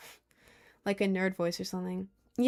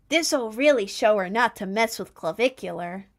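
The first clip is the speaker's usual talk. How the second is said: mocking voice; 4 dB louder than usual. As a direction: sneer like a smug troll. Mocking the trolls' thinking.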